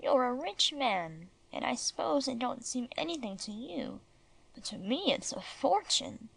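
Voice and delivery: slow, measured and deliberate; very slowly. Acted. Old granny to the rich master, speaking very slowly. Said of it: "Then she said very slowly".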